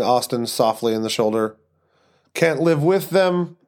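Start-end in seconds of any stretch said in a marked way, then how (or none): 2.3-3.6 put-on Eastern European accent. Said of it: "terrible Eastern European accent".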